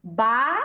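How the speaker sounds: BA said with lips fully closed; stop b. Shown as a demonstration. Teacher shows students the normal first b, stop b. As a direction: give BA a firm closed b. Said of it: "Normalmente pronunciaríamos".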